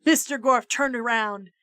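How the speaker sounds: ordinary delivery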